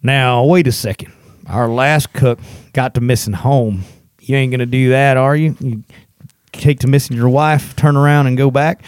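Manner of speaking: Captain Call. Acted. Trail boss questions the new cook, lightly acted challenge. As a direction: put a new hire on the spot, firmly. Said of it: "Captain Call, he goes".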